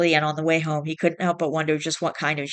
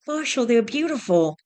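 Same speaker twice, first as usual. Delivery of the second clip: higher, delighted breathy gasp; breathed delight; 7 semitones higher than usual. Acted. Wife seeing roses from husband, delighted and breathless. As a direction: marvel at the flowers. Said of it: "she breathed".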